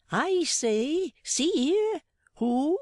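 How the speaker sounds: high, loud peasant woman calling out; shrill peasant woman. Acted. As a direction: call out like a startled peasant woman. Peasant woman calls at door.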